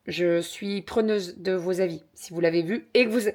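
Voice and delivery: talking through hiccups; suppressing hiccups. Real, not acted. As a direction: hiccups breaking the words. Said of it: "pardon, j'ai eu le hoquet".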